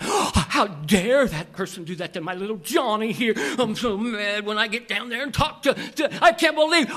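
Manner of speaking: mock-outraged mom, climbing to a shout; indignant mother. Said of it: "And the mother says".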